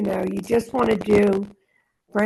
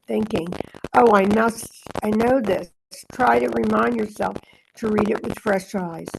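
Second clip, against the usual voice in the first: meditative reading. Acted. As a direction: read it as a calm inner guidance. Reads a spiritual text aloud.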